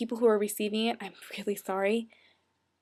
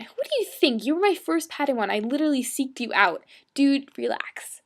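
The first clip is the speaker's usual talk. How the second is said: higher, louder playful protest; mock indignant; 4 semitones higher, 5 dB louder than usual. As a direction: answer as if the question is absurd. Mock-indignant answer to favorite Padawan question.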